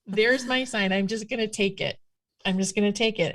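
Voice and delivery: laughing acceptance. Retold or imitated. Seeing the Black Angus TV special as her sign, laughing. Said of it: "I'm like".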